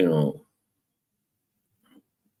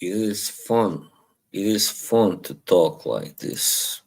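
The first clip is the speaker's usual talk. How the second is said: light put-on British accent, easygoing. Streamer enjoying his sudden British accent, lightly put on. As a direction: slip casually into a mild British accent. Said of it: "whole other kind of accent pops out of me".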